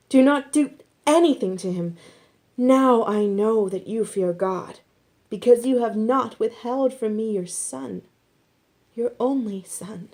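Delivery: high, loud, commanding angel voice; urgent angel command. A narrator's reading. Angel forbids Abraham to harm the boy, loud and high. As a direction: halt him with force.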